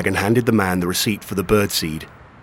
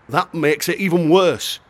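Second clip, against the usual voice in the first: shouting; 8 semitones higher than usual. Acted. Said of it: "the shopkeeper shouted".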